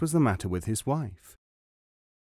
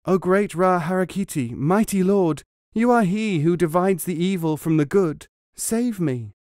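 higher and louder, pleading prayer; calling out in fear; 7 semitones higher, 4 dB louder than usual. A narrator's reading. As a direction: cry out to the god for rescue. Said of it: "Bata called out".

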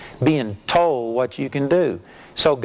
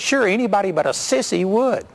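higher-pitched, teasing jab; retold taunt; 6 semitones higher than usual. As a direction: goad a golf rival into trying. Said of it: "I insulted him".

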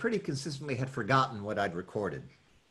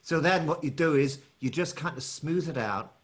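Cockney accent starting to smooth out; London accent, easing off the rough edge; London cadences; 3 semitones higher than usual. Shown as a demonstration. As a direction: keep the London lilt while explaining. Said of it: "those cadences are very London".

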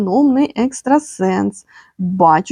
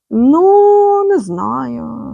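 doubtful ну; 3 semitones higher, much slower than usual. Real, not acted. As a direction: jump up in pitch, unconvinced. Unsure reaction to card.

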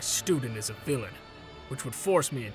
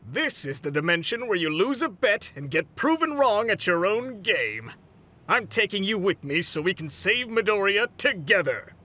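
higher, emphatic comeback; defiant declaration; 4 semitones higher than usual. Acted. Captive turns the bet on his captor, defiant. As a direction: throw the challenge back, pitched up.

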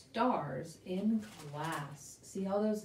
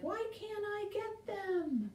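dog voice; 11 semitones higher, 7 dB quieter than usual. Pretend. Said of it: "And the dog is like".

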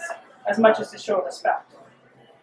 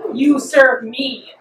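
hissed; 2 semitones higher, 3 dB louder, much slower than usual. Acted. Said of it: "Hecate hissed".

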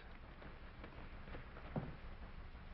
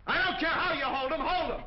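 higher, louder urgent order; urgent shout; 13 semitones higher, 3 dB louder than usual. Real, not acted. Ordering Mike to hold suspect.

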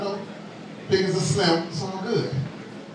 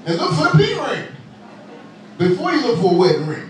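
high, emphatic preacher punchline; a touch of the pulpit; 5 semitones higher than usual. Acted. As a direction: proclaim it like a preacher. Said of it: "I felt like a preacher".

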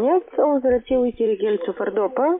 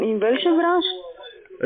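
higher and very slow, word by word; slow, spelled out; 7 semitones higher, much slower than usual. Real, not acted. Caller asks again slowly after not hearing the answer. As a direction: drag each word out so he catches it. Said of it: "hab ich akustisch nicht verstanden".

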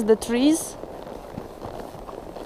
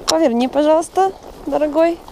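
higher, coaxing pet-talk; talking to a horse; 5 semitones higher than usual. Real, not acted. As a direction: sweetly coax the horse to turn. Coaxing the horse while riding.

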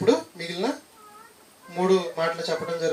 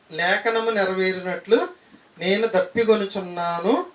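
slow verse reading; slower than usual. Shown as a demonstration. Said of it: "repeated verse reading".

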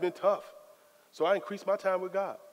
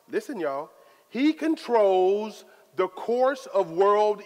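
slow, weighty preaching of scripture, louder on key lines; scripture reading; 3 dB louder than usual. Acted. Preacher reads Daniel's praise to the congregation, slow and weighty. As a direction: proclaim each line like holy writ.

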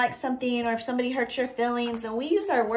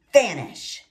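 character line; 3 semitones lower, 6 dB louder than usual. Acted. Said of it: "says Stick".

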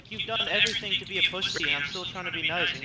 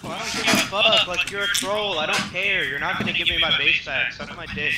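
angry; 3 semitones higher, 9 dB louder than usual. Real, not acted. Furious player cursing the troll.

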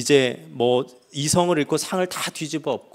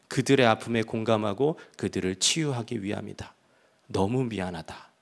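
God's voice. Retold or imitated. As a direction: speak as a tender, apologizing God. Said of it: "주님의 음성을 들은 거죠".

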